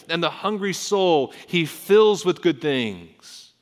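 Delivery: high, loud climactic reading; forceful, slow preacher's climax; proclaimed scripture. Acted. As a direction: drive the line home, drawing out the words. Psalm reading reaches its climax.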